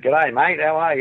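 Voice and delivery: easygoing Australian greeting, lightly done; Australian accent. Retold or imitated. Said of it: "I had an Australian accent".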